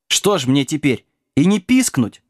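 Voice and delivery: lightly voiced sulky doggy whimper; mild whimper. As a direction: whine it, rising high at the end. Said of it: "захныкал пёсик".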